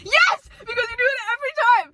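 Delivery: high, loud, fast insistence; playful argument with her friend; insistent outburst. Real, not acted. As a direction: insist it, exasperated. Arguing with friend.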